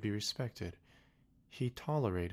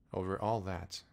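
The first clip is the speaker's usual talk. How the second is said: king affirming. Acted. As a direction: settle it with royal certainty. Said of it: "the king answered".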